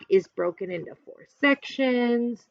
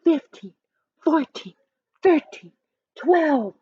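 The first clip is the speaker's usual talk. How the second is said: counting down; 6 semitones higher than usual. Acted. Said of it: "The crowd counted down".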